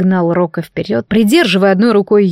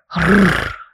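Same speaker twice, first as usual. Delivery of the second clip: mild dragon growl; 2 semitones lower than usual. Acted. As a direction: growl it like a dragon without much force. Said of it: "заревел дракон". (лёгкое драконье рычание)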